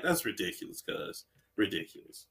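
low, very quiet aside; stunned understatement. Retold or imitated. Gamer's verdict on the devil moves, hushed and low. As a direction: drop right down, as if floored.

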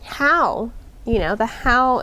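talking between sips of coffee; words around a sip of coffee; while sipping a drink. Real, not acted. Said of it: "sorry, I'm drinking my coffee at the same time".

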